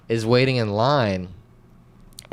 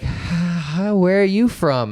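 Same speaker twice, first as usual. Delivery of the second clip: mock friendly woman; 7 semitones higher, slower than usual. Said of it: "She's like".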